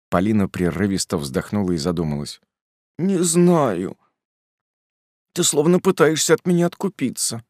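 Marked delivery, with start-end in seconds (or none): 3.0-7.4 hurt reproach. Acted. Polina hurt by offer.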